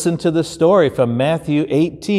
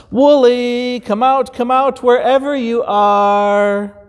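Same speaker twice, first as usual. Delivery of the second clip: higher, sing-song calling out; shepherd calling; 10 semitones higher than usual. Acted. Shepherd calling the hidden lamb, higher and coaxing. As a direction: coax the lamb out gently.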